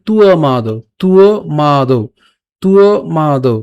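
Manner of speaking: তুয় মাদৌ as tu-o maa-dou, drawn out; model pronunciation. Shown as a demonstration. Teacher repeats the correct sound, drawn-out তুয় মাদৌ. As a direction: glide through তুয়, then stretch মাদৌ. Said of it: "এটার উচ্চারণটা হচ্ছে".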